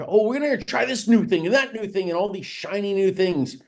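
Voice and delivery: mock excitement. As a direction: imitate someone thrilled by every novelty. Mimics people chasing new things.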